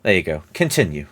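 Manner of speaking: low, soft, understated reassurance; Pluto. Acted. Pluto to the party before veiling the giant, low soft voice. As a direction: drop it right down, quiet and low. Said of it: "And he goes".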